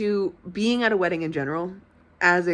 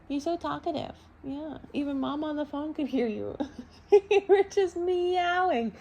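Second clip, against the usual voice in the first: cooing to pet; 9 semitones higher than usual. Real, not acted. Owner talking to her chatty cat, high cutesy cooing. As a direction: coo indulgently in a small high voice.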